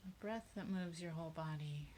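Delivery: guided meditation. Real, not acted. Leader guiding a group to focus on breathing, meditative. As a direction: ease listeners into their breath, unhurried.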